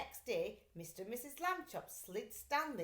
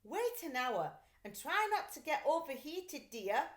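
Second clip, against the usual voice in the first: higher caring instruction; fussing mother; 5 semitones higher, 4 dB louder than usual. A narrator's reading. Mother advising her boy in the box. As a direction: advise him gently. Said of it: "Missus Lambchop said".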